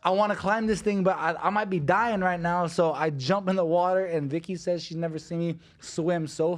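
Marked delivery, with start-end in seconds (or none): 0.0-2.7 high, loud, panicked retelling of being scared; panicky fear. Retold or imitated. Fighter retelling sea urchin scare to teammates, high panicked voice. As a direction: relive the terror of thinking he's dying.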